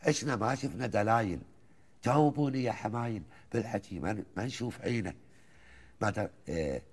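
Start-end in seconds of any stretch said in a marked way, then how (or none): 0.1-5.1 chanted Gulf verse, rising and falling lines; poem recitation. Acted. Host listens as he recites the old poem, measured and rhythmic. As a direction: recite it like a folk poet to the host.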